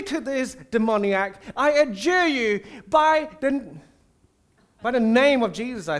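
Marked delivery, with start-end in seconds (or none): 1.6-5.9 louder, higher hammed-up solemn command; would-be exorcists commanding the demon; mock exorcist. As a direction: play the fake exorcist overdoing the formula. Sons of Sceva address the demon.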